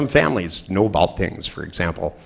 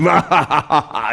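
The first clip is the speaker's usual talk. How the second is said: higher, mock menacing ha ha ha; fake spooky laugh; 6 semitones higher than usual. Dad teasing daughter before lights out, mock creepy laugh. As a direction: tease her with a creepy laugh. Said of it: "he looked at her and he went".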